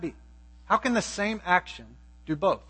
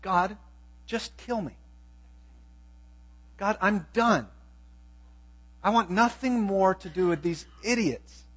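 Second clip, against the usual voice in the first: soft, fed-up and done; weary Moses; 5 dB quieter than usual. Retold or imitated. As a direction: mutter it like a man at the end of his rope. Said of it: "he said to God".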